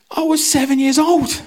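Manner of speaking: high, loud squeaky protest through a laugh; mock indignant protest. Telling the church guy, high and indignant. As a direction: squeak it out in disbelief. Retold indignant reply to rumour.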